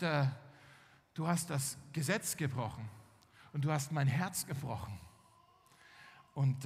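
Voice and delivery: low, halting, wounded reproach; understated heartbreak, with heavy pauses; acted hurt. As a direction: break it off sorrowfully. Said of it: "er war verletzt".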